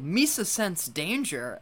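lightly voiced Gungan, slow; a hint of Jar Jar's cronies. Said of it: "Jar Jar's cronies is like".

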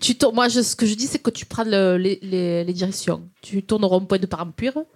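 rambling Marseille direction-giver; Marseille accent. Shown as a demonstration. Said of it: "l'accent marseillais, tu sais faire".

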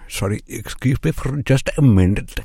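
put-on Rajiv apologizing, Indian accent; polite aside in Indian accent.

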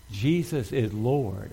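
very slow, drawn-out proclamation; leading congregational declaration. Real, not acted. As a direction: stretch every word so all can join in. Congregation asked to say it along.

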